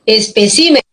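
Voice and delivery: ESPECÍMENES with the accent moved onto CÍ; stress on CÍ. Shown as a demonstration. Teacher models the plural for students, stress on CÍ. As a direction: lean on the third syllable of ESPECÍMENES. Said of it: "la sílaba si".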